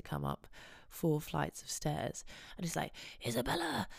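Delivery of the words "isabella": high-pitched mock concerned yell; concerned shout. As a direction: call her name like a fretting caretaker. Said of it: "shouting at me, in a sort of concerned way".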